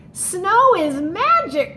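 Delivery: slow, loud, wondering exclamation; delighted cry. Acted. Little Mouse happy with Big Mouse in snow. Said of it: "cried Little Mouse".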